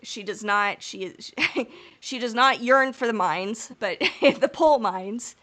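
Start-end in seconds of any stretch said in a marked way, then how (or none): 2.0-5.4 giggling through the words; laughing. Real, not acted. Host laughing at her own mine pun. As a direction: laugh out the pun on pole mines.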